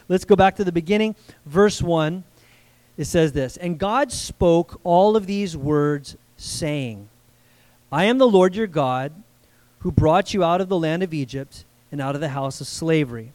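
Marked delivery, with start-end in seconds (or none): 3.6-13.3 deliberate, solemn Bible reading; scripture reading. Acted. Preacher reads verse one to the congregation, deliberate scripture reading. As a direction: read it out with weighted pauses.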